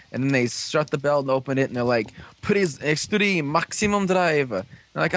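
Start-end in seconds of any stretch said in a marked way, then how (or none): 2.4-4.5 higher, slow gadget call-out; drawn-out mock announcer voice, pitched up; imitated device announcement. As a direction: announce it like a transforming belt.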